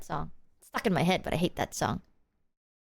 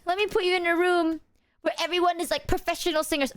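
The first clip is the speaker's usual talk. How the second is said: mocking quote; 5 semitones higher than usual. Mocking whoever would force her to sing, high. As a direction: mimic a smug tormentor. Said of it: "It's like".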